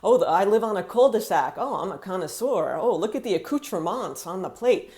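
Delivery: mildly affected TV character dropping French words; fancy. Retold or imitated. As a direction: toss off anglicized French to sound fancy. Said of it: "some French words to be fancy".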